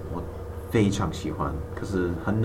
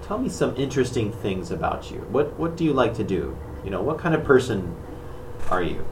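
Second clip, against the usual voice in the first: English speaker voice. Pretend. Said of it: "我变成讲英文的人".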